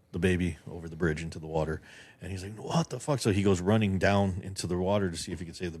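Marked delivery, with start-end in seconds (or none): 2.6-3.2 high-pitched, storytelling shock; acted disbelief. Guest voicing his film's driver seeing a baby thrown, mock shock. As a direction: play a stunned driver, pitch jumping up.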